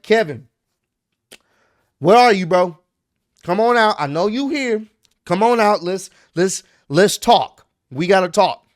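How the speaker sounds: loud retold call into the arena. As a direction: shout him out of hiding, impatient. Cody calling Kevin out.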